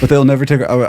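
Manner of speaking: a hint of the film hero's battle cry; Braveheart battle speech. Host correcting the Braveheart quote, lightly mock-heroic. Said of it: "sort of screaming this speech".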